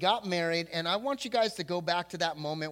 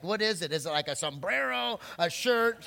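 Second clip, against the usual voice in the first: higher, louder eager wife guessing; 4 semitones higher, 4 dB louder than usual. Retold or imitated. Wife eagerly guessing what her gift is, excited and louder.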